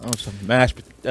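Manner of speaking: low, slow Southern drawl attempt; Southern accent. Shown as a demonstration. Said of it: "If anyone can do a Southern accent".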